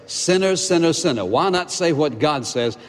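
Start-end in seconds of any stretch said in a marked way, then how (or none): 0.1-1.2 "Sinner, sinner, sinner" pitched higher, each word hammered; stress on sinner. Shown as a demonstration. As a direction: drive home the word "sinner" by repeating it. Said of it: "What's the emphasis of that?".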